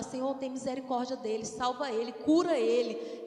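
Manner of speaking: ordinary talk, nothing marked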